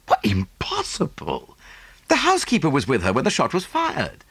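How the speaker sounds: Hastings voice. Acted. Hastings objecting to Poirot, lightly voiced. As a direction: Hastings brightly cuts in.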